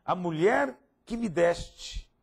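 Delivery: slow, drawn-out quote; slow reading of Adam. Retold or imitated. Preacher reading Adam's words to the congregation, slow. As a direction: read each word slowly and weightily. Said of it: "Então disse o homem".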